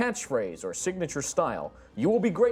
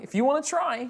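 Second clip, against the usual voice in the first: mocking voice; 11 semitones higher, 3 dB louder than usual. GM repeats line in voice.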